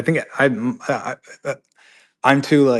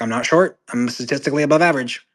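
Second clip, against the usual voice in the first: imitating a miffed protest, louder and rising in pitch; mock indignant; 4 semitones higher, 6 dB louder than usual. Quoting George when called short, mock indignant. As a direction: protest it in mock offence, voice lifting. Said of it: "He gets mad whenever you call him short".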